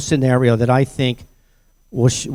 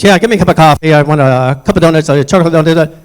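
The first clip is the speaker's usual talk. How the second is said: loud, raised-pitch brusque order; acted-out impatient bully; pushy customer; 4 semitones higher, 6 dB louder than usual. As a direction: rattle off an order like a rude customer.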